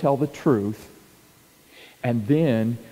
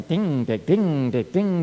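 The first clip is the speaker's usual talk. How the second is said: pinball dings; 3 semitones higher, slower than usual. Retold or imitated. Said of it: "you ever seen those little pinball machines".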